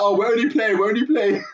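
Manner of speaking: high-pitched, pleading play-acted niceness; put-on placating big-brother voice; mock nice. Older brother soothing a hurt younger one, mock nice. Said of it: "you're trying to be nice".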